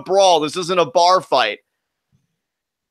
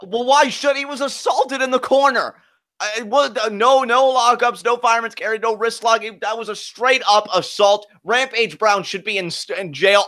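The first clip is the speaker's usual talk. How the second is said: high-pitched, sputtering outrage; indignant protest; 5 semitones higher than usual. Real, not acted. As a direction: protest it as a scandalous foul. Outraged protest at supposed assault.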